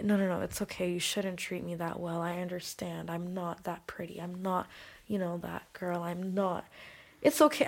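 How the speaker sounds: very soft, resigned murmur; meek self-deprecation. Retold or imitated. Woman voicing her old self accepting poor treatment, meek and quiet. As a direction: say it small, excusing the mistreatment.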